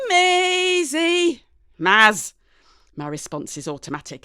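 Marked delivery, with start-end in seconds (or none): 0.1-1.4 much higher, louder yell; furious shout. Acted. Mum yells at spilled tea. 1.8-2.3 louder snapped correction; loud retort. Acted. Automatic retort.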